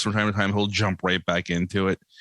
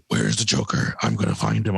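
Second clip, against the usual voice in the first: Batman voice. Retold or imitated. Kid in character as Batman.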